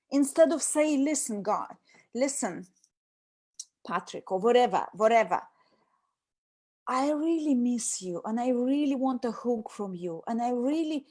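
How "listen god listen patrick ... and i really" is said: tender plea. Shown as a demonstration. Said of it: "that would be real you".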